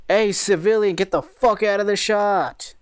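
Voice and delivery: mock angry yell. News crew yelling at a passer-by in the shot, mock angry. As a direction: yell it slowly like clearing a bystander away.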